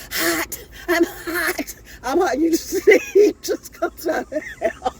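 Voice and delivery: high cries breaking into laughter; laughing hot-flash imitation. Retelling her hot flashes to the audience, laughing hard. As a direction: wail it, then crack up.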